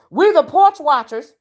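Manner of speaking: lightly put-on voice of a nosy onlooker; Tracy voice. Speaking for the porch watchers, light impression. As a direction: lightly play the porch gossip. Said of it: "in my Tracy voice".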